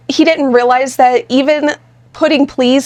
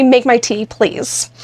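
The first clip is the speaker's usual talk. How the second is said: confident directive; slower than usual. Shown as a demonstration. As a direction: state it calmly, then add please. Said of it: "That's different".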